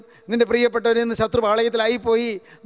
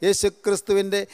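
closing prayer; 2 semitones lower than usual. Acted.

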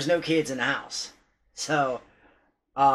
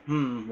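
slightly lowered, quieter "hmm"; imitated low hum; 3 semitones lower, 4 dB quieter than usual. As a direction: mimic a low, soft hum. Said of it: "the low".

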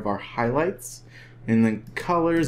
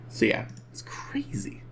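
unvoiced whisper; 7 dB quieter than usual. Real, not acted. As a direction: breathe it out with no voice. Whispered aside while editing.

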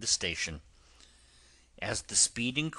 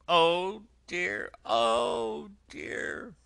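tearful washerwoman; 8 semitones higher, 6 dB louder than usual. Acted. Toad disguised, pleading with the driver, high and tearful. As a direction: wail your hard luck like a poor washerwoman. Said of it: "crying afresh".

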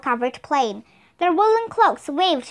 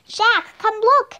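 higher, eager call to a friend; 7 semitones higher, 4 dB louder than usual. A narrator's reading. Annie calls Jack over to the snowdrift, calling out. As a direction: call out with a lifted pitch. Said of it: "Annie called".

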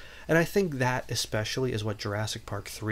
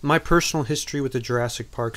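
too loud; 2 semitones higher, 3 dB louder, faster than usual. Real, not acted. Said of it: "I came in a little loud there".

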